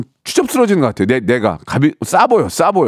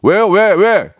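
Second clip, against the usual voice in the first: high, louder hammed-up squabble; mock angry retort; 10 semitones higher, 4 dB louder than usual. To a neighbor at the door, a mock angry retort. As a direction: pick a fight in a hammed-up way. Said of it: "이러지".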